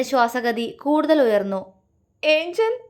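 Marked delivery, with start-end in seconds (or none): 2.2-2.8 crying call. A narrator's reading. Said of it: "Shiva കരഞ്ഞുകൊണ്ട് വിളിച്ചു".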